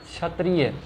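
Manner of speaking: क्षत्रिय said as "chhatriya"; wrong chh pronunciation. Shown as a demonstration. Teacher shows the common misreading, chh for ksh. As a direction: drop the k, start क्षत्रिय with chh. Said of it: "क्षत्रिय में आप गलत पढ़ रहे हैं".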